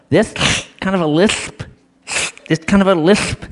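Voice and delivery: 'lisp' with air hissing out the sides of the mouth; slushy lateral s in 'lisp'; lateral lisp. Shown as a demonstration. Showing Missus Scherer's lateral lisp to listeners, slushy s. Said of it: "A lateral lisp".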